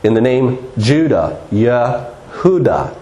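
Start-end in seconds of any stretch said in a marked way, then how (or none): 1.5-3.0 Yehuda said slowly in three syllables, ye-hu-da; Yehuda pronounced. Shown as a demonstration. Preacher showing the congregation a pronunciation, slow Yehuda. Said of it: "That's how some would pronounce it".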